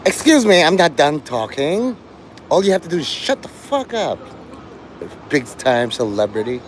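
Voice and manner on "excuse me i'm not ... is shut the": shrill nagging wife, pushy; annoying wife voice. Acted. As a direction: play the nagging celebrity wife. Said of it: "I can do the annoying wife of Alec Baldwin".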